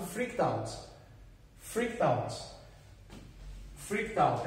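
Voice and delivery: "freaked out" with a T sound joined to "out"; pronunciation demo. Shown as a demonstration. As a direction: say "freaked out" as "freak-tout", the T running into "out". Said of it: "É como se fosse um som de T".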